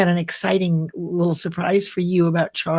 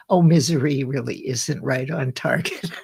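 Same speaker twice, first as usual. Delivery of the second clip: dry sarcastic aside; 5 semitones lower than usual. Real, not acted. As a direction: say it with wry sarcasm. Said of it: "You notice the sarcasm in my voice".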